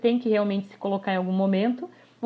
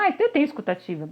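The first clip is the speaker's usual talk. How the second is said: mock claim; 5 semitones higher, faster than usual. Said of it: "Escuta ativa virou até piada".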